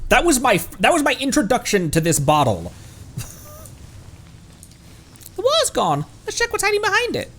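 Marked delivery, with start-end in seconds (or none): 5.4-7.3 much higher, chirpy little companion; high squeaky fairy voice. Acted. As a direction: pitch way up like a tiny mascot.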